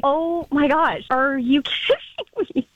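slow, drawn-out disbelief with a laugh; stunned disbelief. Retold or imitated. Recalling the first look at it, slow stunned disbelief. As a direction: stretch it out, half laughing in shock. Retold first shocked reaction.

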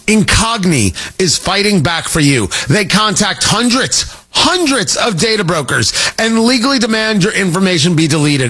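upbeat sponsor read, quick and punchy; brisk radio ad spot voice. Acted. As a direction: sell it like a radio host ad. Host reads sponsor ad.

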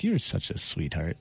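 low, soft smitten murmur; retold sweet-on-you voice, low and slow. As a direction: imitate someone sweetly charmed, slow and hushed. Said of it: "all of a sudden was smitten".

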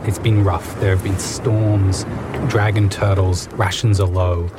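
dramatic scene setting for players; game master narration. Acted. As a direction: paint the scene like a storyteller.

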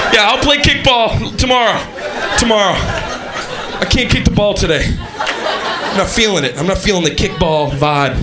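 put-on strung out kid voice.

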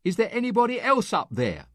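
high, deadpan second try; hopeful punchline plea. Acted. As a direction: ask for a different answer, voice way up. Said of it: "and then the response".

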